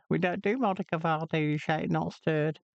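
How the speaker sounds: hint of a put-out barman; a light comic barman's answer; bartender's reply. Shown as a demonstration. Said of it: "that thing that I just said about the martini".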